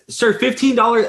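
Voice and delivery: a high, shocked echo of the price; shocked repeat. Retold or imitated. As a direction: repeat the price like you misheard. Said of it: "And I said".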